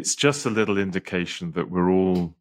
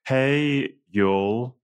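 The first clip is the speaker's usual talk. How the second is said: hammed-up Southern "Hey, y'all", Hey pitched higher; American accent on request; 4 semitones higher than usual. Shown as a demonstration. The speaker redoes his American accent for Nate. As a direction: lean into a Southern American drawl. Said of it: "Could you do that again?".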